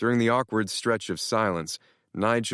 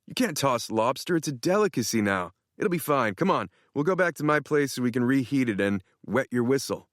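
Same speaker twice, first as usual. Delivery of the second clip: lightly voiced cocky friend, a bit higher; a hint of a smug buddy; boastful Tanner; 5 semitones higher than usual. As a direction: brag it with a grin. Tanner insists on lobster.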